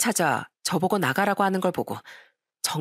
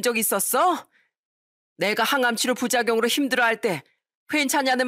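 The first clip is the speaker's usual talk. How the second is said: a hint of an outraged mother, pitch raised; mild angry tirade; 4 semitones higher than usual. Mother berating her son and his wife, mildly angry. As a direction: pour out the rebuke, understated. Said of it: "한바탕 퍼부으시더군요".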